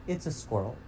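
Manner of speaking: awed hush. Shown as a demonstration. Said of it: "here's how I react whenever I see a squirrel".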